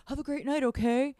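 mocking the driver. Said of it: "And he's like".

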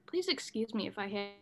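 talking around fake fangs; wearing vampire fangs. Real, not acted. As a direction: speak with plastic fangs in. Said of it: "these fangs are hard to talk".

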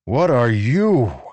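slow, loud blunt demand. A narrator's reading. Rlain demanding answers from glowing Venli. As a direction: press her for an answer. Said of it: "Rlain demanded".

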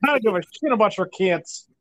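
put-on a light Minnesota accent on Brock's line. Cohost quoting Brock Lesnar to Heath Slater, light Minnesota accent. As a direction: mimic Brock's Minnesota twang, half-laughing. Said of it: "That fucking Minnesota accent".

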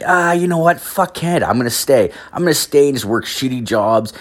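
a hint of a lazy shrug, lightly voiced; mocking immigrant. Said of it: "You're just like".

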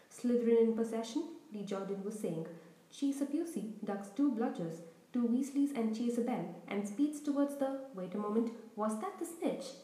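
lively sports commentator calling the play; eager Quidditch commentator; match commentator. Acted. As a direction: call the match like a schoolboy announcer. Lee commentates.

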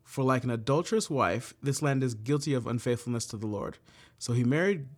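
measured, earnest scripture reading. Acted. Leader reading Bible verses to the group, measured and earnest. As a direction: read the verse to the group with gravity.

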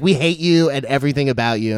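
loud, high retold outburst; high-pitched, exaggerated loud retelling; retold group outburst. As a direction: blurt it loudly, imitating a hostile crowd. Retelling the class turning on him.

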